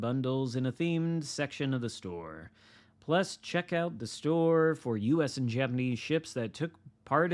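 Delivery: upbeat announcer read; news read. Acted. Reading patch notes aloud.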